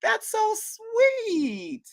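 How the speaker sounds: long drawn-out, adoring coo; touched cooing. Real, not acted. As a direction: gush slowly, stretching the words out with affection. Cooing over his proposal story.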